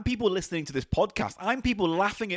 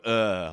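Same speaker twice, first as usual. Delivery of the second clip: muffled despairing groan; demo groan into hands; 8 semitones lower than usual. Shown as a demonstration. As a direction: groan into your palms. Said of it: "put my face in my hands and just go".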